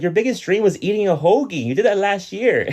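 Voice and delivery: deadpan the put-down; high mocking Marge; mock Marge retort. Quoting Marge.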